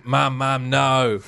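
loud, mildly hammed-up plea to Mum; mock screaming. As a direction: call out as if from a nightmare.

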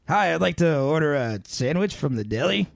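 attempted Canadian accent, barely altered voice; lightly voiced Canadian deli customer with an "eh"; Danny DeVito, Canadian accent. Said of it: "Danny DeVito with a Canadian accent".

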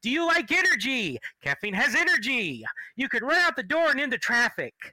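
hammy salesman pitch; pushy mock sales voice; mock ad read. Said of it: "I'm going to do a fucking thing for King's Coast Coffee".

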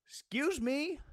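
you can't believe what you heard; incredulous, sharply rising retort; indignant disbelief. Real, not acted. Indignant reaction to the ban.

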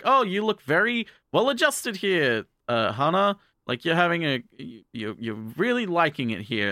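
high, chirpy cop voice, lightly put on; a cheerful officer fooled by the family; mock friendly policeman. Policeman questions Hana at dinner.

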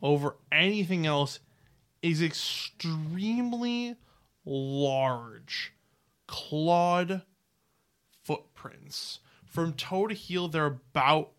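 drawn-out, suspenseful reveal; dramatic game-master narration, stretching key words; game master's scene setting. Acted. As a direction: dole out the description slowly, with pauses. Game master describes a discovery.

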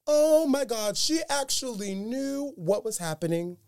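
stunned disbelief; retold astonishment. Realizing the girl heard everything while unconscious, high and amazed.

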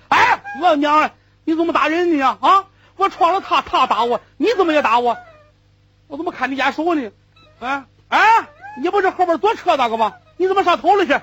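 high, loud indignant protest. Acted. Slapped puller loudly protesting to the man who hit him. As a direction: wail your complaint, aggrieved.

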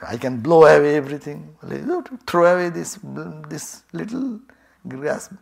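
loud boast. Acted. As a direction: boom out your strength.

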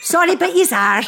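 high, loud, through real laughter; laughing insistence. Real, not acted. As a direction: insist while cracking up. Teasing friends amid shared laughter.

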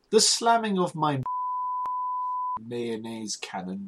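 put-on posh accent. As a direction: read it like a plummy aristocrat. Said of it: "in a posh accent".

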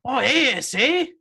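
high, tentative Mexican cholo voice; attempted cholo accent. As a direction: try out a mock cholo accent. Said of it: "trying to figure out the accent".

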